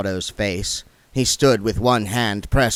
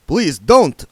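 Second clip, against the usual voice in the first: pleading; 6 semitones higher, 7 dB louder than usual. Acted. Otto pleads with her.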